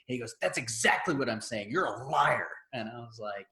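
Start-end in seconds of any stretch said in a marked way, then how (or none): 0.4-2.5 retold accusation. Angry customer retold accusing clerk.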